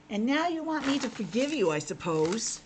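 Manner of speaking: grumpy frog with a sniff. Acted. The frog answers Albert.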